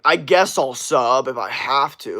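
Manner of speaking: slow, grudging mock agreement; forced, reluctant. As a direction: act as if dragged into it. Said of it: "that sounded like some fucking forced shit".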